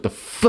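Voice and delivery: "f" sounded out as a strong consonant. Shown as a demonstration. Comedian showing how the word starts, strong isolated "f". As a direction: push out the "f" on its own. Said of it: "it starts off strong too".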